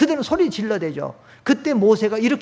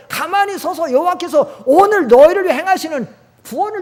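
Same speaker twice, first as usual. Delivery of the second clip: impassioned plea; 6 semitones higher, 5 dB louder than usual. Acted. Moses pleading with frightened people, voice crying out. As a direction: plead with the people to trust God.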